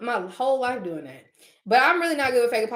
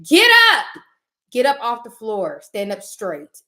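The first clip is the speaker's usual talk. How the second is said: commanding shout; 6 dB louder, slower than usual. Acted. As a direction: shout it like hauling someone off the floor. Urging a doormat to stand.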